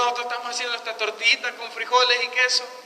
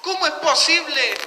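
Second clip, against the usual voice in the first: raised pitch, incredulous protest; indignant; 4 semitones higher than usual. Acted. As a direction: voice Asaf's aggrieved questioning, climbing as it goes. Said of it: "había entrado un enojo y dice". (protesta indignada, con tono elevado)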